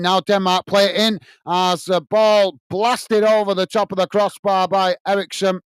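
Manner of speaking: steady football commentary, following the ball; live play-by-play. Acted. Commentator calling Denmark against Slovenia for fans, live play-by-play. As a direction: call the match as it unfolds.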